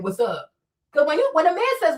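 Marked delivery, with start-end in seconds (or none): 0.0-0.5 lightly imitated man, pitched low; man saying "what's up". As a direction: drop low for a mock guy's line. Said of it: "what kind of man says to a woman".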